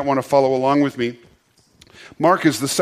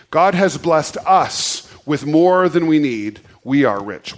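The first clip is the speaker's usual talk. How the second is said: slow group recitation; slower than usual. Shown as a demonstration. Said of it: "say it this way with me".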